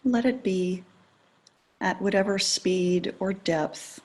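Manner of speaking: calm, unhurried meditation guidance with long pauses; guided meditation. Acted. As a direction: ease listeners gently into attending to the breath.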